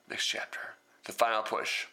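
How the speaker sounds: hushed chapter heading; whispering. Acted.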